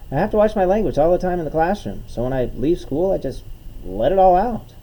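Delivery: lightly voiced sister justifying herself, building to a loud finish; sister's retort. Comedian quoting his teacher sister, lightly imitated defensive retort.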